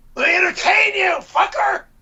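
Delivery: yelling. Yelling the line again while being timed: yelling. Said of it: "Keep yelling it".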